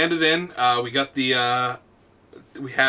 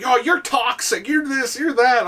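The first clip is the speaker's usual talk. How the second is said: higher, lightly mocked complaint; imitated complaining kid; 9 semitones higher than usual. Kid accuses his teammate, lightly mimicked complaint. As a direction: mimic a kid's griping, pitched up.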